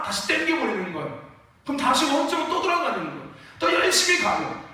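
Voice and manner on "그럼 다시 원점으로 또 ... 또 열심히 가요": ordinary talk, nothing marked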